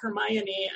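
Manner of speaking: "Hermione" as her-MY-uh-nee; proper "Hermione". Shown as a demonstration. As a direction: stress MY in "Hermione", ending in nee. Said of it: "and not Hermione".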